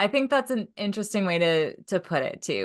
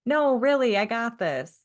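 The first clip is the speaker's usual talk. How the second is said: higher, lightly mocking protest; sarcastic insistence; 4 semitones higher than usual. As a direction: open high on the no, lightly overdoing the confidence. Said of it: "Or was she saying".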